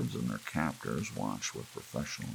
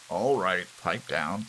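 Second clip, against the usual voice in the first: turnkey's order; 4 semitones higher, 6 dB louder, slower than usual. A narrator's reading. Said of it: "said the turnkey".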